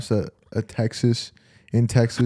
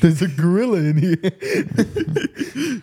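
shocked; 7 semitones higher, much slower than usual. Retold or imitated. Panic at gorilla on ISS.

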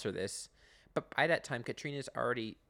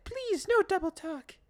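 high, loud and slow; mock lady's firm plea; imitating Katrina; 7 dB louder, slower than usual. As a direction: spell it out primly and slowly. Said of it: "Katrina's like".

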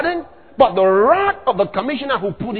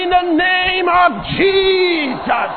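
slow, loud, higher proclamation; bold declaration; 7 semitones higher, 3 dB louder, slower than usual. Shown as a demonstration. Believer standing firm against robbers: slow loud declaration. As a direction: declare it with full authority. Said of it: "You say".

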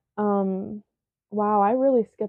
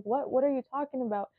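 softer, higher, quick sleepy question; groggy confusion; 4 semitones higher, 7 dB quieter, faster than usual. Retold or imitated. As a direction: imitate someone just woken and confused. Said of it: "like, foggy".

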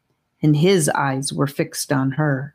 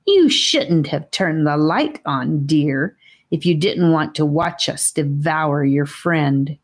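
giggly snake voice. Acted. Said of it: "in a voice that sounded like a giggle".

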